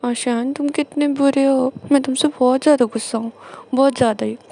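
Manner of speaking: loud, sulky scolding of the husband; whiny angry complaint. Retold or imitated. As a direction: pour out hurt anger, loudly. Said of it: "जानर बोलता है". (नाराज़ होकर ज़ोर से शिकायत)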